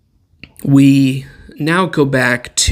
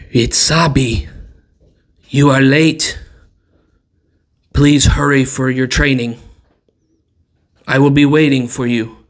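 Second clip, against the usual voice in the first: muffled voice; 4 dB louder than usual. Acted. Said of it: "a muffled voice from the other side of the door".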